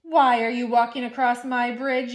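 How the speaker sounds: loud troll yell. Acted. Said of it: "yelled the hideous".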